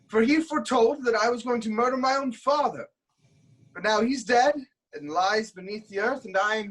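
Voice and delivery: a king crowing over a dead oracle; rising triumph. Acted. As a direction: throw the words out as the prophecy falls apart. Oedipus exults prophecy failed.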